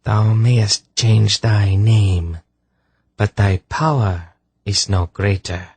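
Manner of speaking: slow, icy put-down. A narrator's reading. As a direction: belittle the rival, cold as ice. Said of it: "Her voice was like ice".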